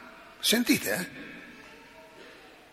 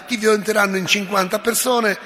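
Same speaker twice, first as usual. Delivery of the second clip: menacing tone; 3 semitones higher than usual. Acted. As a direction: menace her, rising to a near shout. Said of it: "con tono minaccioso". (Pascasio minaccia Lucia, tono minaccioso crescente)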